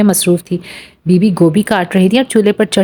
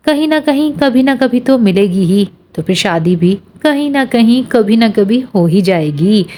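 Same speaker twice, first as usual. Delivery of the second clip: teasing mimicry of his earnest tone, pitched higher and slowing at the end; mocking his tone; 4 semitones higher than usual. Suraiya laughingly mimics Hasan's tone back at him, teasing. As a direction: echo his words back in his own manner, teasing. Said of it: "Suraiya ने हंसते हुए उसी के लहजे में कहा।".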